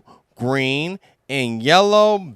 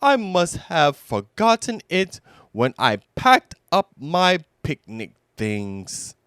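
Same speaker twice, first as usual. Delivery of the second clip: Pooh voice; 4 semitones higher than usual. Acted. Pooh continues in voice.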